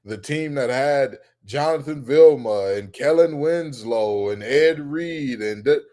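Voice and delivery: mocking fans. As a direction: drag it out like a nostalgic fan. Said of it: "the expectations are".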